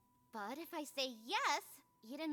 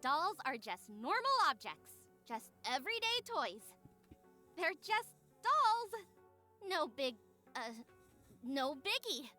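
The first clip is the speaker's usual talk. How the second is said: overdone casualness, punching odd words; feigned nonchalance. Acted. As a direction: pretend it is no big deal, haltingly. Feigning nonchalance about dolls to convince Eden.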